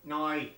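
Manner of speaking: "Nye" said as a dialect form of "now"; imitated dialect "now". Mimicking how they say now, "Nye" for "now". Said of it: "I like the way they say now".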